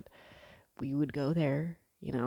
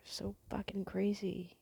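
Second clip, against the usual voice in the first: whispered aside; 5 semitones higher, 9 dB quieter than usual. Real, not acted. Aside about gangs and mob.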